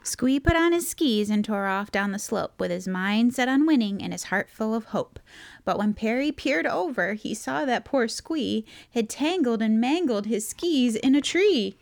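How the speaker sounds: bouncy rhymed storytelling; picture-book narration. A narrator's reading. Reader tells of Squee skiing into trouble, story narration. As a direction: read the verse aloud, lifting into the mishap.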